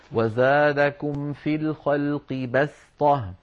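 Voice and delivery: slow recitation, بسطة with a plain, light s; measured chant, clear s in بسطة; sin in بسطة. Shown as a demonstration. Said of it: "نقرأها أيضا بالسين".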